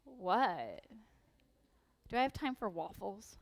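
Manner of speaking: lightly voiced drowsy teen asking about waffles; groggy, hopeful question; sleepy teenager. Mother mimicking her sleepy teen wandering downstairs, drowsy. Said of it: "We finally wander downstairs".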